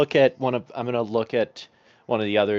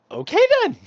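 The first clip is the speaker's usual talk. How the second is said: high, hesitant okay then; awkward okay; 5 dB louder than usual. Acted. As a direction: say it unsure and awkward. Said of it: "I just kinda look back and forth between them".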